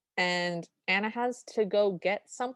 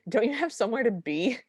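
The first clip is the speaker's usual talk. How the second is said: higher, playful imitation of a prodding mother; a hint of motherly prompting, pitched up; lightly voiced ghost mom; 4 semitones higher than usual. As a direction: imitate a ghost mom giving a gentle nudge. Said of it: "And Ghost Mom shows up".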